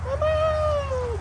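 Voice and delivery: very high, drawn-out squawked Mama; parrot mimic call. Imitating birds calling Mama.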